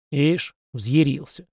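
slow, amused and approving; approving chuckle. Acted. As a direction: grin at his temper. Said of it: "одобрительно усмехнулся Далибор". (одобрительно, с усмешкой)

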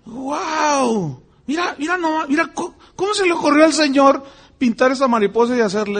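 high, choked-up amazement; tearful wonder. Retold or imitated. Recalling a Patagonian butterfly, high tearful amazement. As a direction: marvel at the butterfly as if moved to tears.

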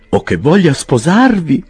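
high, slow gossiping woman; Mrs Clappins. A narrator's reading. Mrs Clappins hoping for a wedding, high and slow. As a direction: tease it out hopefully. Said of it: "disse la signora Clappins".

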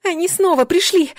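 high, loud cry of alarm; shouting. A narrator's reading. Heroine warns her guard mid-fight, shouting. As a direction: shout a warning at the top of the voice. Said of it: "крикнула я".

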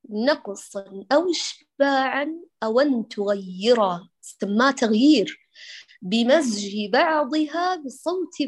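slow chanted poem line; recited verse. Shown as a demonstration. Teacher recites tajweed poem to her student, slowly chanted. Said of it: "وهذا ما قال فيه الإمام الطيبي".

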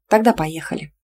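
ordinary delivery, nothing marked

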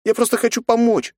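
put-on high, pleading young girl; a little girl begging to help; plaintive girl. A narrator's reading. Nastya pleads plaintively with her father. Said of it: "жалобно ответила девочка".

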